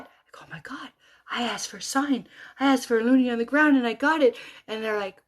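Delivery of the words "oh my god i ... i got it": tag omitted. Retold or imitated. Retelling her excited announcement.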